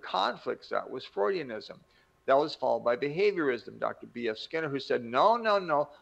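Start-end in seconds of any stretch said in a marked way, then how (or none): 5.0-5.9 high, loud mock protest; emphatic objection. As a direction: cut in with insistent no's. Skinner voiced disagreeing.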